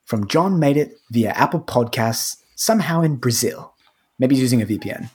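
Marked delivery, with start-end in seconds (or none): 0.0-3.7 lightly put-on British accent. Podcaster reads out a listener's review, in a light British accent. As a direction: read it with a hint of a British accent. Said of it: "I'm gonna read it in a British accent".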